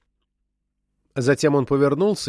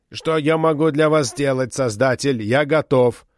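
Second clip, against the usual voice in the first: robot voice. Acted. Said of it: "заговорил скрипучим металлическим голосом".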